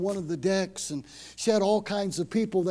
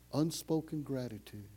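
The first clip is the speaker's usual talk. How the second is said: usual speaking voice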